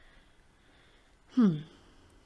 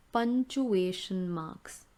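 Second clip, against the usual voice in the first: model the term; slower than usual. Shown as a demonstration. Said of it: "teacher models term".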